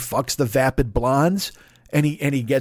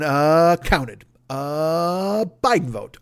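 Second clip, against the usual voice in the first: deliberate Eddie Murphy; much slower than usual. Retold or imitated. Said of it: "just very deliberative".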